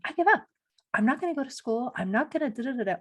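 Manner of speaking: hammed-up frustrated quitter's outburst; fed-up outburst. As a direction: throw up your hands and blurt it out, imitating a worn-out student. Imagined quitter throwing up hands.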